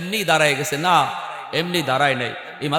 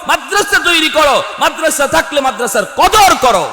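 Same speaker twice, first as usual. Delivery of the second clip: high, urgent exhortation to the crowd; rousing sermon call; full-force preaching; 10 semitones higher, 4 dB louder than usual. Real, not acted. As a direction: drive each command home, pitched high and loud.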